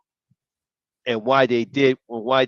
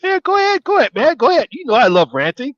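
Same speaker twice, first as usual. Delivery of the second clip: much higher, louder hype; excited egging on; 14 semitones higher, 8 dB louder, faster than usual. Real, not acted. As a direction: whoop the friend into his rant. Cheering co-host on to rant.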